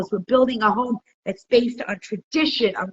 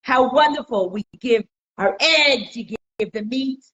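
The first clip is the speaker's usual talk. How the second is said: high, bright-eyed boastful chicken voice, up a lot in pitch and louder; proud chicken; 6 semitones higher, 3 dB louder than usual. Retold or imitated. Chicken boasting to the cow, high and smug. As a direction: preen like a little chicken showing off. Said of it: "and he goes".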